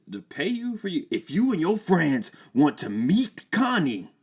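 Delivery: high, put-on teen voice; confused then grudging.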